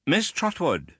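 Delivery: put-on high, imperious old lady voice; stern aunt. A narrator's reading. Stern aunt sizing up the widow, high and imperious. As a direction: look down on her from a height. Miss Betsy introduces herself.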